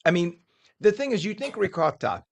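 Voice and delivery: mouth full. Real, not acted. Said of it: "my mouth is full".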